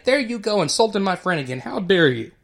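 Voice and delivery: half-hammed rush of defensive outrage; emotional outburst. Linus snapping back at the mean girls in mock outrage. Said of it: "Linus acts out of emotion".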